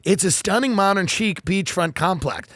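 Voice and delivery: slow, gushing listing read; hammed-up real estate blurb; mock real estate blog. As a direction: sell the house lovingly. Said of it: "and go".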